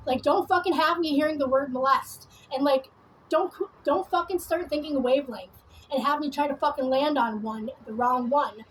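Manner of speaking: heated, sweary telling-off; angry confrontation. Real, not acted. Warning an accuser not to mess with her, angry. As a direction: lash out at whoever is accusing you.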